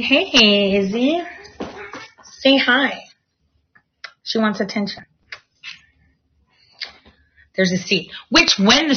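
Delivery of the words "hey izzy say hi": higher, sing-song voice for the cat; pet talk. Real, not acted. Talking to her cat Izzy, sing-song pet voice. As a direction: coo at the cat to say hi.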